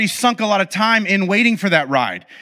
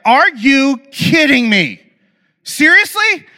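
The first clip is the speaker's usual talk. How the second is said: high, loud, slow outraged disbelief; exasperated disbelief; 8 semitones higher, 5 dB louder, slower than usual. Retold or imitated. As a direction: cry out like you were cheated by fate. Ride reopens after leaving line.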